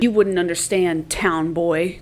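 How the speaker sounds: a haughty brush-off aimed at him; snide dismissal. Shown as a demonstration. Katniss brushing off Peeta's question with a snide sneer. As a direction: sneer down at the town boy. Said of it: "No, she doesn't say it like that".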